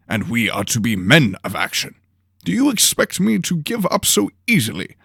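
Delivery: pompous lord calmly explaining; Lord Henley, lofty. Acted. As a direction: lecture your apprentice grandly.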